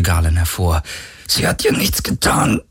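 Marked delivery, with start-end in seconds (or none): 1.3-2.6 high, strained breathy cry; pained plea; shouting while wounded. A narrator's reading. Wounded hero pleads.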